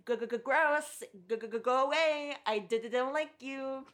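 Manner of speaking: mock stutter. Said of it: "And I said".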